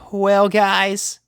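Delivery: high, breathed-out Rainbow voice; exhaling. A narrator's reading. Rainbow telling the pugs it's bedtime, exhaled. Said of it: "exhaled Rainbow".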